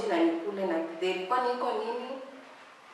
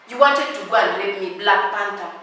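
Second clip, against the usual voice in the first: mock scolding; 4 dB louder than usual. Scolding the absent suitor.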